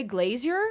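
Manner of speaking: glazier with a z and an ee-er ending, rising; British-style glazier. Retold or imitated. Asking a British viewer how they say it, questioning glazier. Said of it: "you say glazier".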